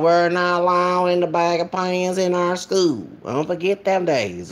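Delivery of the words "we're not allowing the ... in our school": put-on Southern principal accent. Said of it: "I be doing these accents".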